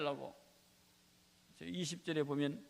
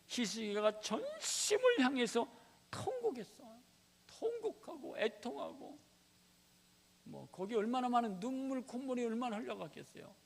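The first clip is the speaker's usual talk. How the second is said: higher, louder, slowed, near wailing; impassioned preaching; 7 semitones higher, 4 dB louder than usual. Real, not acted. Preacher describing Hezekiah's wailing, voice soaring. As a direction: preach the weeping king with feeling.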